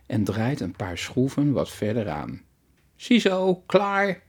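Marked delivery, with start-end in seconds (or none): 3.0-4.2 high, louder proud call of done. A narrator's reading. Boy calls out to Mevrouw Hamers after fixing cupboard, proud high call. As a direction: sing out that the job is finished. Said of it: "roept hij".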